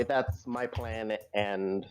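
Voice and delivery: slow, soft whispered aside; whispering on the phone. Real, not acted. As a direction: whisper it privately into the mic. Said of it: "I have to whisper this".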